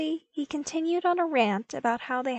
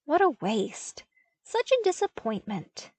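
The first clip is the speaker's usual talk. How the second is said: higher, hammed-up dismay; mock disappointment; 7 semitones higher than usual. A narrator's reading. Luke joking to Vader in mock dismay. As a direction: play the disappointment as a joke. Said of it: "in mock disappointment".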